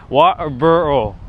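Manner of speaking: slow British water bowl; water bowl, T dropped, British try; attempted British. Shown as a demonstration. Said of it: "I'm having a challenging time".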